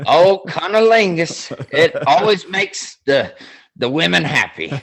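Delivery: retelling the sketch with a hint of a Southern colonel; Southern accent. Telling a friend about the sketch, lightly imitating a Southern accent. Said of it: "he's got that Southern accent".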